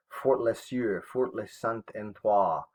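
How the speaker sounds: slow, careful French accent on the fort names; teacher putting on a French accent, sounding out each fort. Shown as a demonstration. Teacher reading French fort names to the class, in a French accent. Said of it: "I'm trying to do my best French, um, impression, or I guess, uh, accent".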